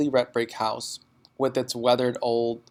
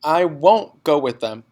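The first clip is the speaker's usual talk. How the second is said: put-on defiant child; 3 semitones higher, 6 dB louder than usual. Child insisting.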